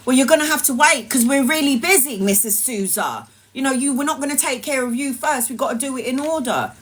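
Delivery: a rude nurse brushing off the patient, fast and curt. Retold or imitated. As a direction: rattle it off like an impatient nurse. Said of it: "she was very rude".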